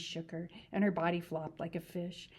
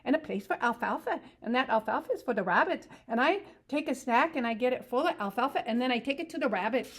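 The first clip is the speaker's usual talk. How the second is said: higher simple-minded ranch hand voice, eager; Lenny; 6 semitones higher, 6 dB louder than usual. Acted. To Curly's wife about rabbits, eager simple voice.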